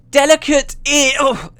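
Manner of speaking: high loud shout collapsing into a weak oh; yell, then crumple mid-word; shout cut short, fading. Acted. Engineer hit by the ray mid-taunt, shout fading away. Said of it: "The voice faded".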